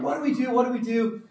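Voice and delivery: imitating a teen's mild panic; mock panic. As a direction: play the scared teens half-jokingly. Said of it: "they were freaking out".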